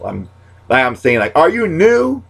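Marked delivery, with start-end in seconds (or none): 1.4-2.2 much higher teasing squeak; squeaky comic jab; high mock question. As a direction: poke fun in a pitched-up voice. Catchphrase fired at a friend.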